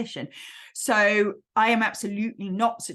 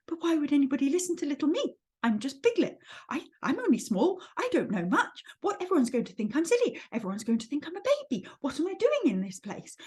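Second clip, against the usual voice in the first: worried, higher-pitched little voice; Piglet; 4 semitones higher, faster than usual. Acted. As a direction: fret anxiously about being small and silly. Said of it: "he's a very worried".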